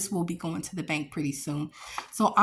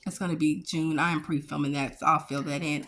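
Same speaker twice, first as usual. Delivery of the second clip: chewing gum; 5 semitones lower, faster than usual. Real, not acted. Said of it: "I'm sorry, I'm chewing gum".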